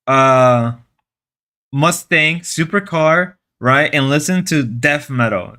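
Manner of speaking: mock-solemn manly manifesto; rally the guys with pretend gravity; joking. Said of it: "I know I'm joking".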